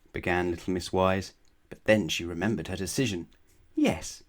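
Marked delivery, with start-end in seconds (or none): 3.7-4.2 high, slow eager acceptance; high, drawn-out yes; eager cry. A narrator's reading. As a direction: force out a keen yes. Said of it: "she cried".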